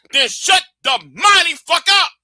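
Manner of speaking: loud, fed-up command; host telling his viewers off, shouting; angry shout. Real, not acted. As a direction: bark it at them. Ranting at his audience.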